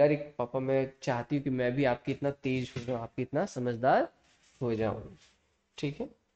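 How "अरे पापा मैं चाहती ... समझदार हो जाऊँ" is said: ordinary talk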